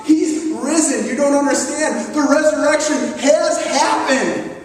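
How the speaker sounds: mildly excited, urgent insistence; emphatic insistence. Retold or imitated. Disciples trying to convince Thomas, emphatic and insistent. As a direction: press the news home emphatically. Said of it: "his disciples are telling this Thomas".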